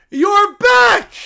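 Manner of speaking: high, loud, slow cartoon bear voice; a cub thrilled by the news; excited little bear. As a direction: squeal it like an overjoyed cub. Bear greeting Trump.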